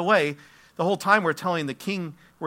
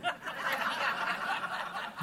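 breathy laugh; 11 semitones higher, 10 dB quieter than usual. Real, not acted. Preacher laughs at joke.

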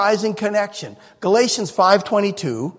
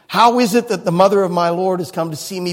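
joyful cry; 4 dB louder, faster than usual. Retold or imitated. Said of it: "She cried out with a loud voice".

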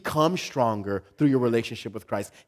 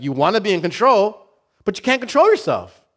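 loud preaching; 8 semitones higher, 8 dB louder than usual. Real, not acted. Preaching at full force.

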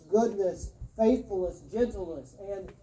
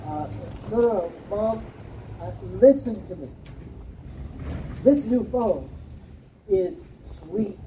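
put-on insistent kid. Kid arguing with mom.

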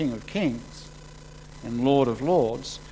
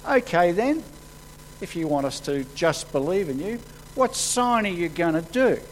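sceptical challenge, pitched up at both ends; challenging crowd; 4 semitones higher than usual. Acted. Crowd demands a sign from Jesus, challenging. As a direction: act out doubters daring him to prove himself.

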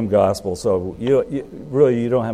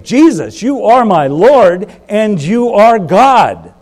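fervent confession; 10 semitones higher, 11 dB louder, slower than usual. Retold or imitated. Thomas's confession, proclaimed.

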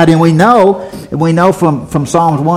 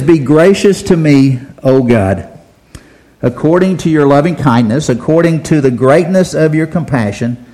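scripture reading. Acted. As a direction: read the verse like a prayer. Reads the psalm aloud.

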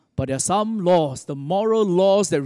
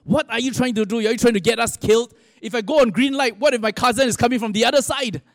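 higher-pitched mock yell; retold scream; 4 semitones higher than usual. Taxi driver turns on his tourist, acted screaming retort. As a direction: imitate an alarmed driver scolding back, all in a rush of protest. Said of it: "turned and screamed at him".

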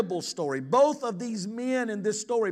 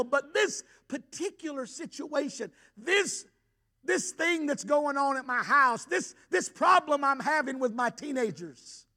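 overwhelmed father; 3 semitones higher than usual. Retold or imitated. Pastor voicing the boy's father pleading with Jesus, building. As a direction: plead like a desperate father who wants to believe. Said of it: "what the Father is probably saying".

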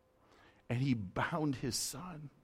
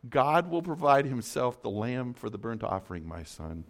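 louder, full-voiced proclamation; firm declaration; 6 dB louder than usual. Abram proclaiming to his son, loud and firm. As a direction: announce it boldly. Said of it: "Abram said".

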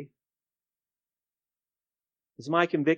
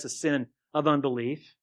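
"sin" picked out with emphasis; stress on SIN; 3 semitones lower than usual. Real, not acted. Preacher naming the congregation's fault, stress on "sin". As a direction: lean on the word "sin". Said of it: "I'm emphasizing the word sin".

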